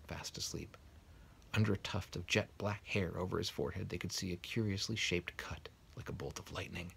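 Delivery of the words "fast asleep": soft hushed whisper. A narrator's reading. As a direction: breathe it softly. Narration of sleeping baby.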